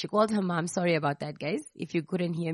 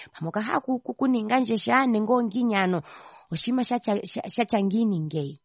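complaining mother; 5 semitones higher than usual. Retold or imitated. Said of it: "she's complaining".

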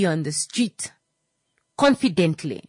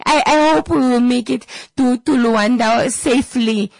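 unsure pilot; 8 semitones higher, 8 dB louder than usual. Acted. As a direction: sound like a pilot who doubts he can land. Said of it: "not exuding confidence".

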